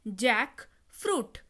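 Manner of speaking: जैकफ्रूट drawn out slowly as जैक, फ्रूट; slow, separated syllables. Shown as a demonstration. Teacher repeats the new word for learners, जैकफ्रूट slowly in two parts. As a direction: break जैकफ्रूट in two, each half stretched.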